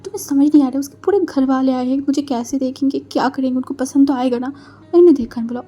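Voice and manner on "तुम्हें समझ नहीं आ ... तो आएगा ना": higher, louder nervous rush; anxious fretting. Acted. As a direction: panic about meeting the family. Nervous sister frets. (घबराई हुई, ऊँची आवाज़ में)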